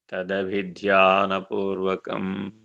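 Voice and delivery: each syllable drawn out very slowly; slow, reverent spelling-out of a sacred term; slow enunciation. Shown as a demonstration. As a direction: lay the word out slowly, weighing every syllable. Key word repeated as refrain.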